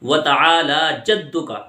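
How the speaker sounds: تعالی with stretched aa; long aa sounded. Shown as a demonstration. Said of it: "آ کی آواز نکالنی ہے".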